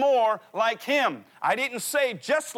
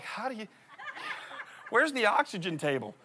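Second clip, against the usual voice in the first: laughing; 5 dB quieter than usual. Retold or imitated. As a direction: chuckle through the words. Laughing at his race confusion.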